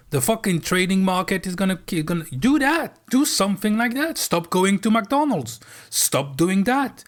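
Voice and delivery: rally them like a coach at the top of your voice; fired-up rant. Real, not acted. Fired-up call to viewers.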